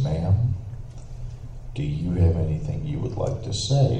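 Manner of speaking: low-key, careful courtroom question; measured judge. Retold or imitated. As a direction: imitate a judge asking gently, with pauses. Judge questioning lady after quiet pause.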